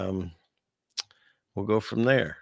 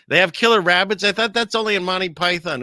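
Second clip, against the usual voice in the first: higher and louder, amazed by the question; surprised; 9 semitones higher, 7 dB louder than usual. Real, not acted. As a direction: react in disbelief to the news. Reading a viewer's surprising comment.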